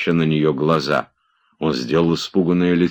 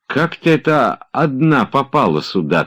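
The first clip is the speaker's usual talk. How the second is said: anxious; 9 semitones higher, 3 dB louder than usual. A narrator's reading. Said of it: "твердил тревожно Обломов".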